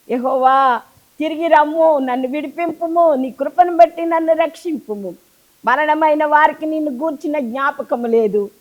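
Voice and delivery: psalm turned into an anguished plea; pleading psalm. Acted. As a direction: beg the Lord as you reread it. Rereads psalm as pleading prayer.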